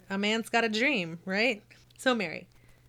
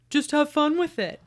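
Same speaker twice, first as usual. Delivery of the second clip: teacher voice; 7 semitones higher, 6 dB louder than usual. Retold or imitated. Quoting teacher Mister Saylor.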